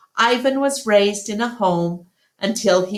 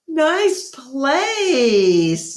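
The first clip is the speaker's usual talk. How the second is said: Bob's voice; 8 semitones higher than usual. A narrator's reading. Bob greets Ivan.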